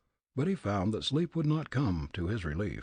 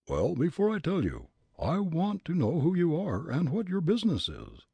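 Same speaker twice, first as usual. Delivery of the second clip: put-on gruff angry old man; 8 semitones higher than usual. Old gent challenging Fritz, gruff and angry. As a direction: bluster like an irate old man.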